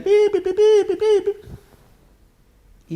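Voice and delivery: high, loud beeping, stretched and laughing; imitated car horns. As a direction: honk like a street full of cars.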